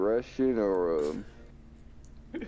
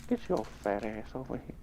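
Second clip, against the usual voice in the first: hint of a Scottish brute; gruff cartoon quote; Fat Bastard impression; 5 semitones higher, 4 dB quieter than usual. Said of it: "that nigga's quotes".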